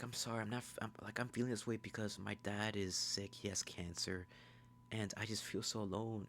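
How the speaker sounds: mildly upset, softened imitation; Nikki. Nikki confides about her sick dad, softly upset imitation. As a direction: lightly imitate a sorry, lonely girl.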